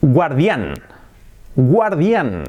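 guardián as Spanish gwar-DYAN; lectura española. Shown as a demonstration. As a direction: stress the last syllable of "guardián". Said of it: "se escribe igual que en castellano". (guardián a la española)

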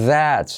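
"that's" with a held voiced TH at the start. Shown as a demonstration. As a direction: lean into the TH of "that's". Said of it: "la semiclave T H". ("that's" marcando la TH sonora)

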